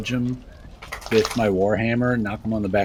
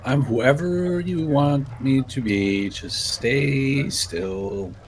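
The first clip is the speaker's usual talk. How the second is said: slow seductive tease; 3 semitones higher, much slower than usual. Acted. Player plays seductive mystery role.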